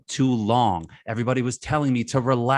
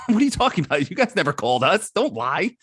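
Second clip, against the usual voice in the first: laughing Spurs mock; 3 semitones higher than usual. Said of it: "And the Spurs like".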